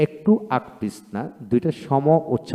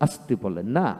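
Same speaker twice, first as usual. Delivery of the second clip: said softly; 3 semitones lower, 6 dB quieter than usual. Shown as a demonstration. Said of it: "আপনি জুড়ে বলেন আর আস্তে বলেন".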